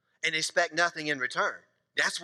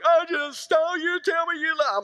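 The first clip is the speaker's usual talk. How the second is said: much higher, imitating his tearful wife; 10 semitones higher, 3 dB louder than usual. Wife voiced in story.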